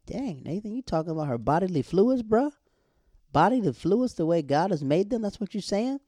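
high-pitched incredulous questioning; mock disbelief. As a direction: call him out in playful shock, pitch jumping up. Mock scolding of a character.

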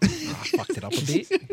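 high, slow New Zealand impression; mock New Zealand accent. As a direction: draw out the confession in a fake New Zealand accent. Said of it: "make fun of his accent".

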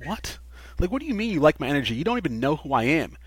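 acted-out incredulous question; baffled retort. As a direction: retell it as a puzzled comeback. Acts out baffled reply to compliment.

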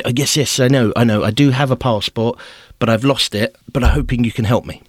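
imitated flustered pleading; anxious pleading. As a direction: hurry to reassure the guard. Pleading with border official.

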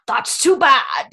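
Aslan quote. Retold or imitated.

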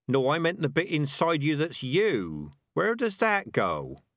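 high-pitched rat, earnestly insisting; questioning rat. Acted. Rat explaining the inner self to a puzzled rat, insistent.

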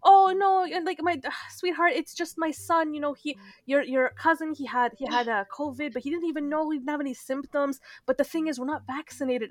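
lightly high, breezy auntie excuse; a hint of a casual aunt; aunt voice again. Aunt explaining her son had covid, lightly breezy. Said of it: "she's like".

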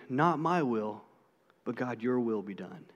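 soft, low, surrendering whisper-like prayer; hushed prayer. Retold or imitated. Jesus praying alone in the garden, hushed and low. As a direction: let it fall away quietly. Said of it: "he prayed".

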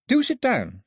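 high-pitched, formal invitation; polite hostess girl. Acted. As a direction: offer a seat in a high girl's voice. Girl playing polite hostess to captors.

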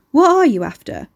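woman calling out to a stranger in the garden; sharp demand. A narrator's reading. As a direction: demand it, tense and wary. Nervous woman confronts hooded stranger.

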